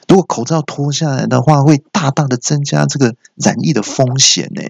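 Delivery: mild indignant scolding, rising as it goes; slightly displeased. Acted. Patient objecting to removing his mask, mildly indignant. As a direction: build a reasoned complaint with a touch of annoyance. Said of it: "我就有点不高兴了".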